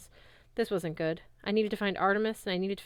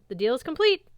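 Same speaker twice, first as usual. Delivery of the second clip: gloating; 6 semitones higher, 7 dB louder than usual. Acted.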